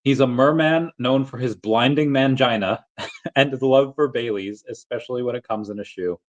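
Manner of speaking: laughing mid-sentence while reading; amused reread; reading through laughter. Shown as a demonstration. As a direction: let a laugh break in. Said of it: "I have to read that again".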